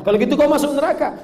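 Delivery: questioning voice. Acted. Voices God questioning the sinner.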